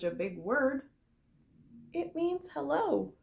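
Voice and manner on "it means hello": kindly. A narrator's reading. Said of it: "Charlotte said kindly".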